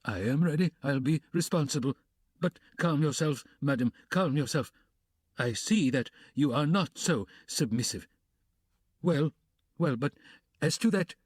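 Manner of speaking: nervous, placating man; flustered gentleman. Acted. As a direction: soothe her while rattled.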